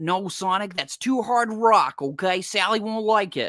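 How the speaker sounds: high-pitched, slow, drawn-out cartoon character voice. Speaker compares a cartoon character's voices across seasons, doing Rotor's first voice impression. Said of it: "which is more like".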